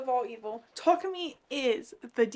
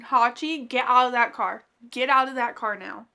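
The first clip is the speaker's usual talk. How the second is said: louder warning at the page; urgent plea; 6 dB louder than usual. Real, not acted. Reader shouting warnings at Hachi in the car. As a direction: order her out, firm. Urging the character to leave.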